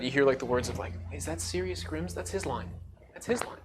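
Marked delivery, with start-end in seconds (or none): 1.1-3.6 soft, voiced whispers in a crowd; quiet acted rumour from the distance; hushed crowd murmur. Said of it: "in the small whispers of it".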